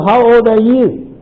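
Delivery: put-on "How old are you?" lifting in pitch on the final YOU; rising question intonation. Shown as a demonstration. Teacher showing students how questions go up, rising intonation. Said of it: "usually the sound goes up by the end".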